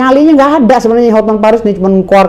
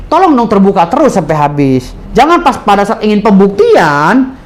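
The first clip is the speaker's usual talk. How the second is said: polite request; 3 semitones lower than usual. Retold or imitated. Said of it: "permintaan kita tuh simpel".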